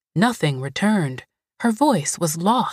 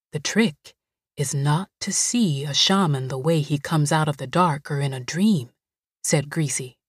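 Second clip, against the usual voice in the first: put-on low, gentle housekeeper comforting a scared girl; Greasy soothing; 3 semitones lower than usual. Greasy explains.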